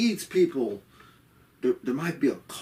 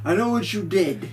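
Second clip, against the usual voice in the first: accusing; 6 semitones higher, 4 dB louder than usual. Retold or imitated. Echoing Dallas's aggressive accusation.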